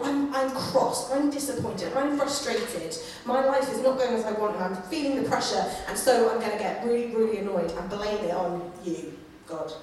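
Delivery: petulance. Retold or imitated. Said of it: "That kind of petulance of".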